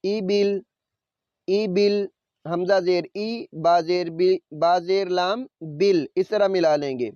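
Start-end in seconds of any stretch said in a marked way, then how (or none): 0.1-2.0 ای بل with the lam closed and no vowel after it; final lam silent. Shown as a demonstration. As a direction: stop on the lam, ای بل, no ی. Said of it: "لام کو ساکن پڑھنا ہے". (لام ساکن کے ساتھ ای بل)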